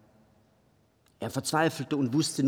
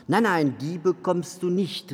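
exclaimed refusal; 5 semitones higher than usual. Acted. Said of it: "rief der alte Mann".

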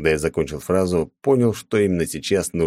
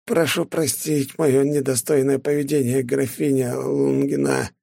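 under torture; 9 semitones higher than usual. A narrator's reading. Forced apology under pain.

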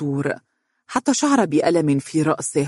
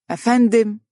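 higher-pitched, scornful query; disdainful; 7 semitones higher, 4 dB louder than usual. A narrator's reading. Woman putting a presumptuous caller in his place, disdainful. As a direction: cut him down with one word. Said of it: "قالت بازدراء".

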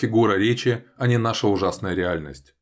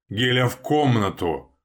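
barking; 4 semitones higher, slower than usual. A narrator's reading. Father barking at daughter to go to her room. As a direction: order her off sharply. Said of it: "рявкает он".

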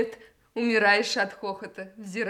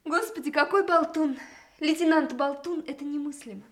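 louder, higher laughing reproach; amused scolding; 5 semitones higher, 5 dB louder than usual. Acted. She laughs at the chatterbox lieutenant, fond louder reproach. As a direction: scold him fondly through the laughter.

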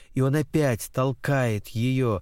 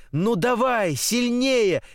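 high, excited demand for more; urging cry; 8 semitones higher, slower than usual. A narrator's reading. Girl on a swing spurs on the tiring pusher, urging cry. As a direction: push the pitch up and urge him on. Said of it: "кричит она".

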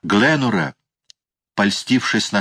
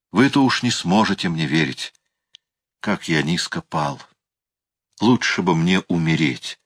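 tearful voice; 2 semitones lower than usual. A narrator's reading. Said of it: "плачущим голосом".

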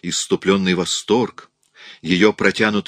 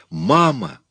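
put-on higher little child's call; tender child's voice; 6 semitones higher, 3 dB louder than usual. A narrator's reading. Materialised child calls to her mother, tender little voice. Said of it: "раздался нежный детский голосок".

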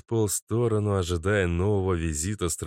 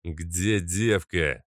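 growled demand; much slower than usual. Acted. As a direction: growl it like a masked thug. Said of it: "прорычал один из незнакомцев".

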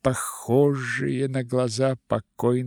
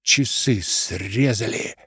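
bark. Acted. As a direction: bark the alarm. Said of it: "гаркнул".

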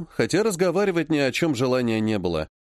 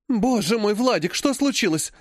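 higher, gasping aunt's alarm; 7 semitones higher than usual. Acted. Aunt Alla gasps at her torn-shirted son. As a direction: gasp in shock over the boy. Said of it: "ахнула тётя Алла".

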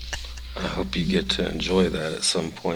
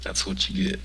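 whispering; 6 dB quieter than usual. Real, not acted. Whispered taunt after guest leaves.

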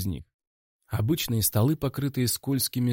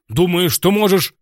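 louder, much higher angry shout; furious yell; 9 semitones higher, 11 dB louder than usual. Acted. Director yells at the hero, furious. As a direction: hurl it at him.

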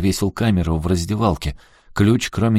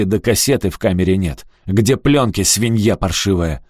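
a raised, contemptuous rant at the boss; angry accusation. Acted. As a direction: tear into him like a thug. Ricky accuses and insults Lewis.

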